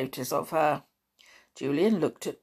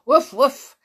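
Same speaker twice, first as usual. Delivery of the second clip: higher, louder voiced woofs; dog's bark; 8 semitones higher, 9 dB louder than usual. A narrator's reading. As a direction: bark like an eager dog in words. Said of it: "said Timmy".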